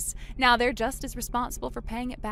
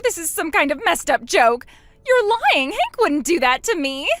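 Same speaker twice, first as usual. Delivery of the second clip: shouted denial; 5 semitones higher, 6 dB louder than usual. Acted. Sister learns she was betrayed.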